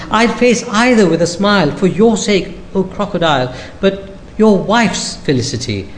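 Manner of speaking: a hint of the clever monkey, startled. Monkey tricks the crocodile.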